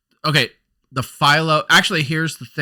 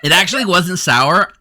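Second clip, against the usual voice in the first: laughing; 6 semitones higher, 6 dB louder than usual. Real, not acted. Laughing about the sour candy.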